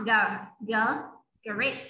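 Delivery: "G, G, great" built up from the first letter, ending on t; sounding out the word. Shown as a demonstration. Teacher coaching child: "great" sounded out from its first letter. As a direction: break "great" into its first sound, then say it whole. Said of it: "có âm, âm đi cuối".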